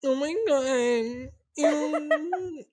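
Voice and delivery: laughing, grossed out ew; laughing disgust. Real, not acted. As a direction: squeal ew while laughing. Reacting to hentai soundbite.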